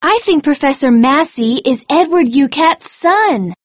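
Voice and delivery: high, excited theory; keen student sleuth revealing a theory. A narrator's reading. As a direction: share a big deduction in a very high voice. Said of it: "said Michelle excitedly".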